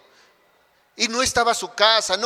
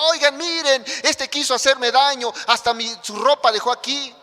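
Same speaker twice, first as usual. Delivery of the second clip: raised, higher mock yell calling the household; preacher acting out the wife crying for help, pitched up; retold shouting; 5 semitones higher than usual. Potiphar's wife crying out to the servants, acted yell. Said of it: "empezó a gritar y dijo".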